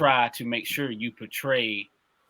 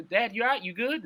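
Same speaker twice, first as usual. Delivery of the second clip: son checking on dad; 11 semitones higher than usual. Acted. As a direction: ask like a worried teenage son. Voicing a son asking dad.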